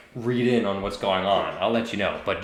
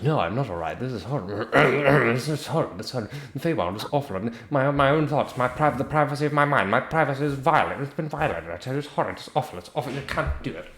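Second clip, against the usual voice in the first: distressed soldier; 4 semitones higher, faster than usual. Acted. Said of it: "looks over at his patron and goes".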